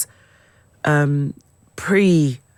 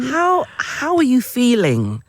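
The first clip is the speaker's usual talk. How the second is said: whispered question; 6 semitones higher than usual. Real, not acted. Hushed question to the star.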